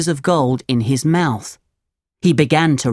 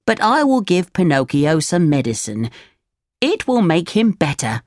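lightly higher cricket voice; a hint of a chirpy cricket; Jiminy Cricket voice; 3 semitones higher than usual. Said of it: "Jiminy Cricket said".

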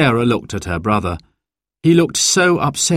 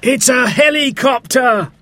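high, excited exclamation; excited cry; 4 dB louder than usual. A narrator's reading. Dad spots the rescue helicopter, crying out excitedly. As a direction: cry out the discovery, pitched way up. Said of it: "cried Dad".

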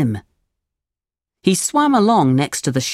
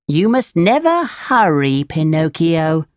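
snail voice. Acted. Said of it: "replied the snail".

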